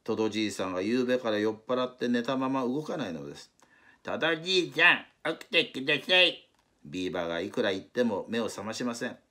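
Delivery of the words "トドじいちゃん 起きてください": higher, louder call to wake someone. Acted. Beaver trying to wake the drunk old walrus, a loud high call. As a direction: shout to rouse a sleeper.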